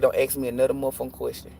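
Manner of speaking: quick, cursing version of the warning; fed-up warning. Retold or imitated. Fed-up stepmom telling the child off, quick firm warning. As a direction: lay down the law fast, without raising your voice. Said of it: "I didn't say motherfucking, though".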